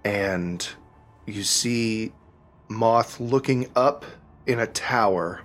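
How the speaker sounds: measured narration with suspenseful pauses; game master's scene-setting. A narrator's reading. Game master describing the burning Underdark village, measured and suspenseful. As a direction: unfold the scene piece by piece.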